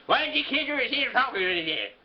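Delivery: creepy Irishman. Retold or imitated. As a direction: holler it in an Irish brogue like a porch crank. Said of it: "creepy Irishman starts wailing at him".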